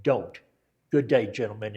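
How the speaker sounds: "don't" lands after a pause, then a curt goodbye; a hint of a Hollywood general signing off; dramatic pause before. The general ends his warning to the troops with a curt sign-off.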